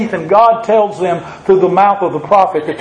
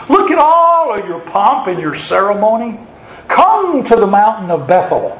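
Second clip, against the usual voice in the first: mocking, with drawn-out emphasis; exaggerated mock invitation to the pious; sarcastic; 3 semitones higher than usual. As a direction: preach it as a sarcastic taunt. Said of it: "The prophet's being sarcastic to his people".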